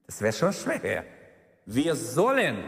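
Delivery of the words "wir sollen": "sollen" firm like an order; stress on sollen. Shown as a demonstration. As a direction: say "sollen" as a command. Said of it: "das ist ein Befehl eigentlich". ("sollen" als Befehl betont)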